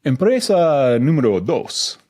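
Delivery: automated Spanish menu voice; phone menu in Spanish. Retold or imitated. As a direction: read it like a recorded menu.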